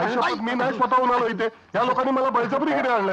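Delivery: high, plaintive protest of innocence; desperate high-pitched pleading; panicked wailing. Acted. Pleading he was forced along.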